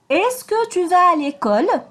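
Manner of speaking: Est-ce que tu vas à l'école? slow, rising at the end; questioning rise. Shown as a demonstration. Teacher repeating the question for her pupils, rising tune. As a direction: repeat it slowly as a clear question. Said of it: "Je répète".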